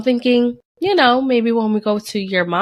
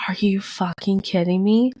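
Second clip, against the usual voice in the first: hushed, incredulous whisper; voiceless under-the-breath disbelief. Retold or imitated. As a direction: whisper it to yourself in retold shock. Retold disbelief at second test.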